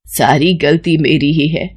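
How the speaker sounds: low, subdued mother-in-law's apology; tearful remorse. Acted. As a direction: take the blame, low and regretful. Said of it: "उसकी सास की आंखों में आंसू आ जाते हैं".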